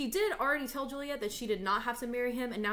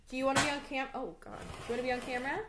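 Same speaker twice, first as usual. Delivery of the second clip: talking to a dog; 4 semitones higher, much faster than usual. Real, not acted. Asking the dog.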